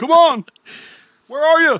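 very high angry calling out. Imitating the neighbor dad looking for his missing son: impression of a mad neighbor dad. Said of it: "Nailed it".

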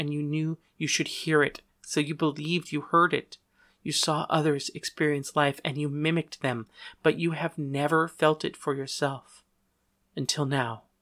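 ordinary delivery

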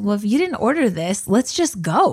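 put-on smirking delivery. Retelling what another person said about leaving, imitating a smirking remark. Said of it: "literally said with a smirk on his face".

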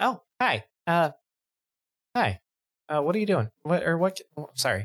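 caught off guard, flustered. Voicing Jandar, sweeping up broken glass as a customer walks in: flustered. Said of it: "I'm a little flustered".

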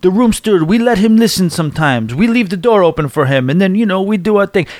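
put-on butchered Jamaican accent. Quoting the room steward's words to the guests, in a bad Jamaican accent. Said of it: "I'm butchering a, uh, uh, a Jamaican accent".

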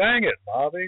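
high, exasperated cartoon voice. Speaker tells how they greet a coworker named Bobby: Hank Hill impression. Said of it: "every time I'm saying like".

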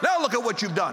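ordinary delivery

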